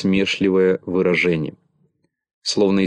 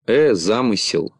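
impatient; 2 semitones higher than usual. Acted. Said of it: "нетерпеливо перебил".

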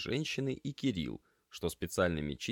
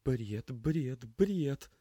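high, repeated dazed murmur; lost, repeating to herself; muttered disbelief; 7 semitones higher, much slower than usual. Acted. Lena scrubbing dishes, high and dazed. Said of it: "бормотала девушка".

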